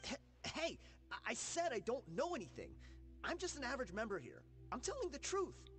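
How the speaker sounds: nervous stammer. Acted. Captive stammers under threat.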